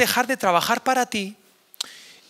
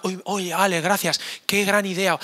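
mock grateful listener. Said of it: "la gente apunta".

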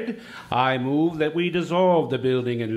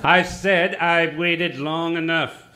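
insistent repeat; 3 semitones higher, 4 dB louder than usual. Acted. Potter repeats himself, insisting.

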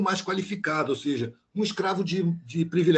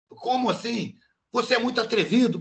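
retold shouting boss; 5 semitones higher than usual. Boss scolds the diver for logging too many hours, mild mock yell. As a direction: imitate the boss snapping at his employee, raised voice. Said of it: "Mas ele falou isso gritando".

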